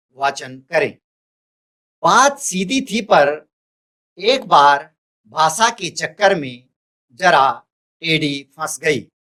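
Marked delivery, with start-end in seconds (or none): 2.0-9.1 measured verse reading, pausing between short phrases; poem recitation. Acted. Teacher reads the poem aloud to students, measured recitation.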